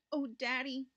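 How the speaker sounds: a touch of a wail, narrated; mild mock sob. Boy to his father over lost kitten, mildly sobbing. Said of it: "sobbed Richard".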